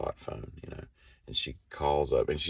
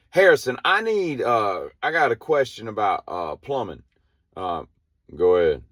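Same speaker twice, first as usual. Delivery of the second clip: radio question; 8 semitones higher, 7 dB louder than usual. Retold or imitated. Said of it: "she calls up".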